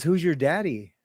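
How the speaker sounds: normal talking voice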